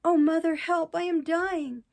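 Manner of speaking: put-on high, loud cry of a stricken boy; dying cry. A narrator's reading. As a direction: call out for mother, high and loud. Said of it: "turning as white as a sheet, said only".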